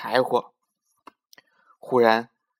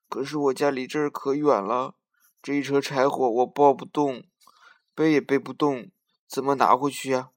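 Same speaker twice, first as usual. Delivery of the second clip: grieving grandmother; 4 dB louder than usual. Acted. Grandmother weeping over distance.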